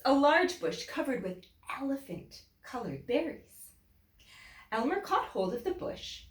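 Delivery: building storybook suspense; lively read-aloud for children. A narrator's reading. Storybook reading continues.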